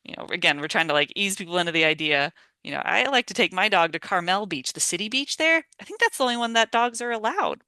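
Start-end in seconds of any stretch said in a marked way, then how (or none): 2.6-7.6 feigned innocent wondering, pitch lifting; casually clueless, higher toward the end; playing dumb. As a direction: act like you're not quite sure. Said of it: "kinda playing dumb".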